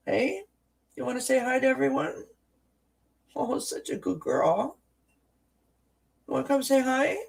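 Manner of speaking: very high cooing for a pet. Real, not acted. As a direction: sweet-talk the kitty. Cooing at the cat.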